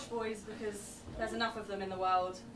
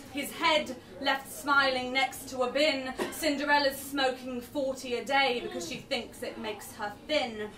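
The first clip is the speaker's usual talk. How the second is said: spoken word poem; 3 semitones higher than usual. Acted. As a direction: punch each line like slam poetry. Performs poem Staff Only.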